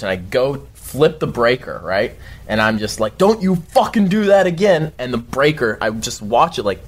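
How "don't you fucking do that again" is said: higher, heated warning; re-enacted furious threat; retold fury. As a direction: scold the thing, voice pitched up. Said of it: "this time I'm furious".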